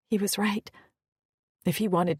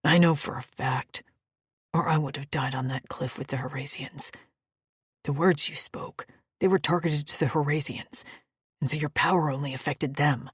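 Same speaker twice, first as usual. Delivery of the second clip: low male voice; 5 semitones lower than usual. Acted. Maddock low voice.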